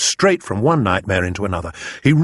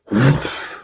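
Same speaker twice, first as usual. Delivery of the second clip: whoosh; 4 semitones higher than usual. A narrator's reading. Imitates the blowing of the trumpet.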